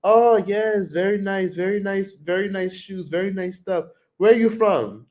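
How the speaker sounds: high, sing-song mock shopkeeper; pushy vendor voice. Mocking a vendor who greets tourists, pushy high voice. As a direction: ham up an eager street seller. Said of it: "when they'd be like".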